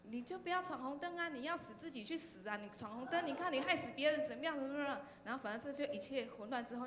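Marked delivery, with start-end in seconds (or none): 0.0-5.0 higher, scolding auntie's voice; lightly voiced angry aunt lecturing the girl. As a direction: imitate the auntie telling her off. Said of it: "开始大骂她".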